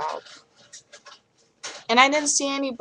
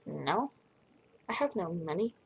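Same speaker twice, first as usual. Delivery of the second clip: sheepish broke reply; 3 semitones lower, 9 dB quieter than usual. Retold or imitated. Answering the four hundred dollar bill.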